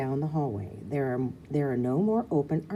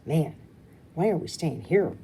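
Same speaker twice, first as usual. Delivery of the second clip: whiny; 4 dB louder than usual. Acted. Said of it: "Rue whines".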